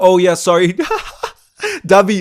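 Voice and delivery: overexcited, high, loud laugh. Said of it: "I'm getting too excited".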